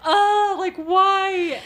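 loud, high mock groan of despair; exasperated outburst. Parent fed up with two wild boys, exasperated. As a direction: throw it out as a hammed-up, helpless complaint.

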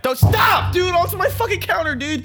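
loud, high-pitched protest; high, frantic outburst of disgust; disgusted shout. Acted. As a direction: yell in appalled disbelief. Appalled at cockroach crushed on counter.

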